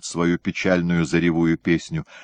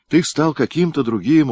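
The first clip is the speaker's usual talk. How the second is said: higher, louder reproach with a rise on ты; reproachful; 8 semitones higher, 4 dB louder than usual. A narrator's reading. Ahima reproaching Andrey for changing, reproachful and raised. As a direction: gently accuse him of changing. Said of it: "укоризненно покачала головой Ахима".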